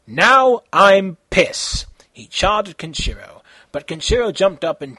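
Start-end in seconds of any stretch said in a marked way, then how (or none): 0.1-1.9 louder, drawn out slow yell; hammed-up angry villain yell. A narrator's reading. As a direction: bellow it in mock rage. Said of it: "and yelled".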